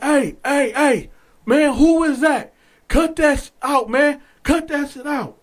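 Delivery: lightly hammed-up guard calling out; imitating shouting guard. Guard ordering a singing inmate to stop, mock shout.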